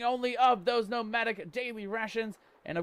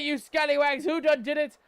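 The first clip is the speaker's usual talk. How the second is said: mock pirate voice; 8 semitones higher, 6 dB louder than usual.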